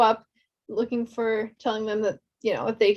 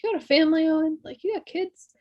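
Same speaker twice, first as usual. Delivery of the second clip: lightly sweet villain coaxing; gentle menace; 5 semitones higher, faster than usual. Retold or imitated. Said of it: "she's gentle, like".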